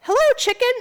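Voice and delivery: high cartoon greeting; mother voicing a muffin, no accent; plain muffin voice. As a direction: greet like a toy.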